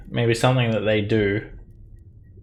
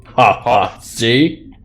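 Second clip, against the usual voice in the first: dopey cartoon bellow; 2 semitones higher, 5 dB louder, much slower than usual. Giant gloats.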